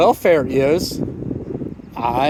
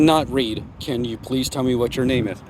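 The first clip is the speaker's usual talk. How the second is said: slurring words; 5 semitones lower, 6 dB quieter than usual. Real, not acted. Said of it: "And you're slurring your words".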